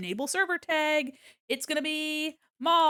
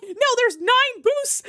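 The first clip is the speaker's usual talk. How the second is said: pleasantly surprised; 9 semitones higher, 8 dB louder, slower than usual. Real, not acted. Learns nine boosts were given.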